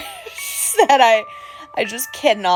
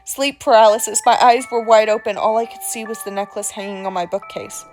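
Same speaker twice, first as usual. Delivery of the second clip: creepy storyteller voice. Acted. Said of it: "without this accent".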